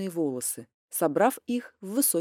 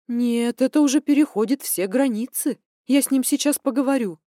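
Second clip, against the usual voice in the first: indignant mother; 4 semitones higher, 5 dB louder than usual. Acted.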